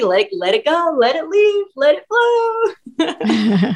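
emotional release. Acted.

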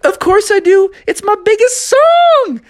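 high, boastful singer; proud of his hit. Acted.

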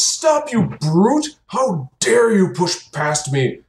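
high, slow indignant npc voice; outraged priest. Acted. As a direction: shriek at the brute pushing past. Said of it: "he goes".

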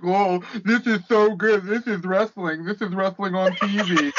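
silly gushing fan impression; mock fan voice. Ranting host imitates everybody on Twitter, mock fan voice. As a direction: put on an overawed fanboy voice. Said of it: "What is that voice?".

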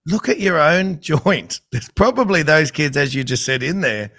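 mock exasperated advice; retold advice. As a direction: set a whining coach straight with a laugh. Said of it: "And I'm like".

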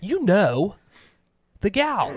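high and strained, searching for a name; high, strained recall. Real, not acted. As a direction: reach up high while hunting for the name.

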